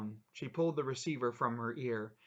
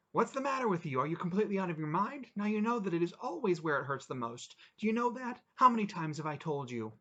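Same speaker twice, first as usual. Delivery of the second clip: angry husband; 6 semitones higher, 4 dB louder, faster than usual. Acted. Husband berating his wife.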